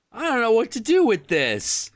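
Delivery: high, whiny mock creature; helpless creature voice. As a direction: sound lost and overwhelmed. Deformed creature's helpless complaint.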